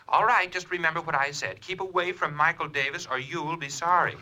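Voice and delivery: a touch of menace, badly bluffed; unconvincing threat. Anonymous caller warns Holliday off by phone, unconvincing threat. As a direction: lean on him with an amateurish warning. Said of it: "worst imitation of a squeeze play".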